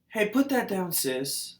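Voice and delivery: a hint of a mom telling her kid off; imitating a mom. Mom in a store telling her daughter to put it down, mildly mocked. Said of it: "And then I see it in another store".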